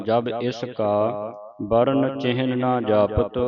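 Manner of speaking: slow, deliberate recitation of verse; scripture recitation. Shown as a demonstration. Teacher leads the congregation through the verses, slow recitation. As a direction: draw out each phrase, pausing between them.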